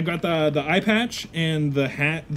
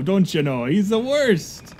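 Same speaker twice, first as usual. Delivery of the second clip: mocking mannerism; 3 semitones higher than usual. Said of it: "are you making fun of me".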